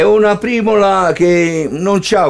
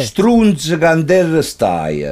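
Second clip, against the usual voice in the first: neapolitan street slang; 3 semitones lower than usual. Acted. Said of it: "Ora te la dico".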